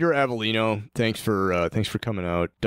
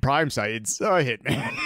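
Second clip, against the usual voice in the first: emphatic slow shout; 4 semitones higher, slower than usual. Real, not acted. Emphatic reveal.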